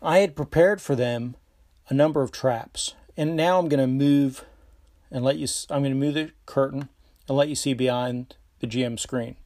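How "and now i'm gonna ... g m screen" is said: tipsy. Real, not acted. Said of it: "I'm a little tipsy".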